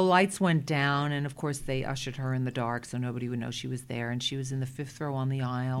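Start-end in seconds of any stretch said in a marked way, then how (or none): 4.1-5.8 slipping into a Brooklyn accent. Real, not acted. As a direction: Brooklyn vowels on the aisle. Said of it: "that was my Brooklyn accent that just came out".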